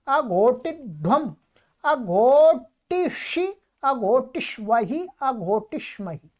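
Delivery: measured, rhythmic grammar drill; paradigm recitation. Shown as a demonstration. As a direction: recite the verb forms evenly.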